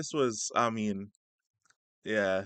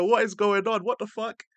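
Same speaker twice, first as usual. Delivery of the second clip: retold shock; 10 semitones higher, 5 dB louder than usual. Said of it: "my face just snaps up".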